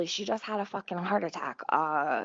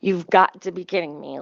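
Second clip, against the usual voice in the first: exasperated disbelief; 3 semitones lower, 7 dB louder than usual. Retold or imitated. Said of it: "And I'm like".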